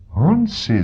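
a startled cry, pitched high; surprised exclamation. Acted. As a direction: blurt the name out in amazement. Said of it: "zvolal jsem".

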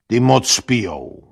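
mildly weighty, considered remark; deliberate. A narrator's reading. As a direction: state it as a considered verdict. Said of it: "povídal rozvážně".

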